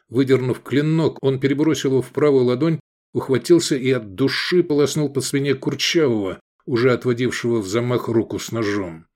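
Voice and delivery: ordinary delivery, nothing marked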